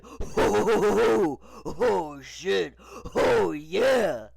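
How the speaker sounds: loud gang member's voice, moaning exclamations; big, loud put-on gangster voice; Mr. Potato Head. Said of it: "angry gang member's voice as he said".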